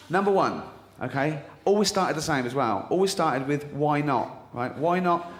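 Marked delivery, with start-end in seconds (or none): 3.7-4.4 offhand, breezy why not; light shrug of a suggestion; casual. Shown as a demonstration. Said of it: "Like, casual". 4.8-5.3 casual suggestion tone, like a cooking tip; light casual why not. Shown as a demonstration. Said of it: "Like, casual".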